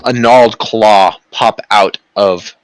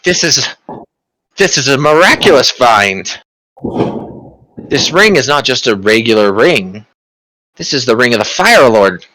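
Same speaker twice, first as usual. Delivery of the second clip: awed sorcerer; 3 semitones higher than usual. Acted. Sorcerer reveals ring.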